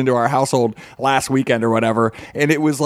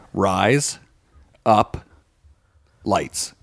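RISE, UP, LIGHTS as three separate words; much slower than usual. Shown as a demonstration. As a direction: pause fully between each word. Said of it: "Only say it together".

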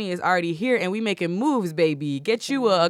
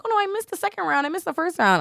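panicked fan; 11 semitones higher, faster than usual. Retold or imitated. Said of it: "people were D Ming me like".

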